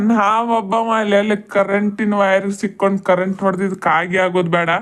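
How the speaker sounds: mock her driving, low and dry; sarcastic mockery. Sarcastic man mocking her driving.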